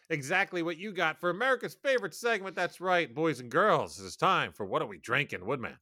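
put-on bright, announcing, for boys and girls; booming kids show opener. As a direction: present it like a children's TV host. Announcing the drinking segment.

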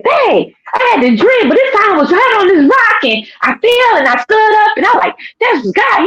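high-pitched, urgent excitement; excited retelling. Retold or imitated. Waking her husband to tell him the dream, excited.

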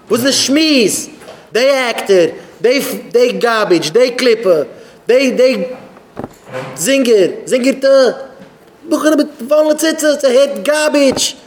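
high, fast, strained tirade, climbing steadily; indignant rant. Real, not acted. Indignant rant listing what he condemns.

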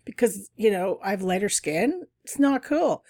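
replaying a furious telling-off; retold yelling. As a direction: tell him off hard, indignant. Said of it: "started yelling at him".

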